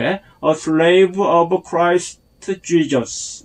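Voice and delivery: slow, careful "a slave of Christ Jesus"; "a slave of Christ Jesus" in drawn-out model phrasing; model pronunciation. Shown as a demonstration. Teacher modelling the phrase for learners, slow and careful. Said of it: "이렇게 발음하면 됩니다".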